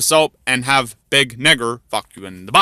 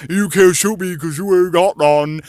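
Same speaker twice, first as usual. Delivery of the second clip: a hint of the smug deer; mildly mocking sing-song; lightly voiced taunting deer; 3 semitones higher, 4 dB louder than usual. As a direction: deer gloating he can't be shot. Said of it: "the deer going".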